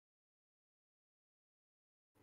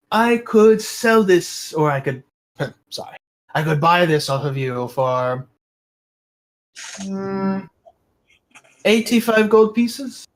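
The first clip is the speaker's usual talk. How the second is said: high, slow, sly little shopkeeper voice; haggling kobold merchant; 6 semitones higher than usual. Acted. Kobold merchant naming his price to the customer, high and slow. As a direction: draw out the offer like a crafty kobold trader.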